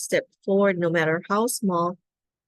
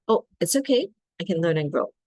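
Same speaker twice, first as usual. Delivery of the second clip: compassionate self-talk; faster than usual. Shown as a demonstration. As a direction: comfort yourself like a best friend would. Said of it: "I often practice this myself".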